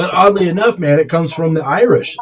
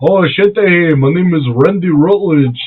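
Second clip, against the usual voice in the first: lightly mocked hillbilly introduction; a hint of backwoods cousin; Randy Rutledge. Friend pretends to be the cousin introducing himself, light country mockery. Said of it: "He's gonna be like".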